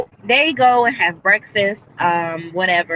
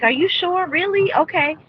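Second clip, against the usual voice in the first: excited disbelief, imitated; 9 semitones higher than usual. Recapping how she took the money offer, imitated excitement. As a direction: act out her giddy, hopeful questions. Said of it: "she was so excited and overwhelmed with joy".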